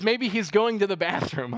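mocking. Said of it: "He mocks them".

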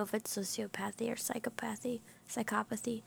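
unvoiced whisper aside. Real, not acted. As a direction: whisper it under your breath. Aside mid-chat.

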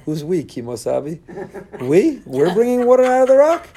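high, loud incredulous "We?"; mock him in disbelief. God mocking Moshe's word "we", incredulous and loud. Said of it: "God looks at Moshe and says".

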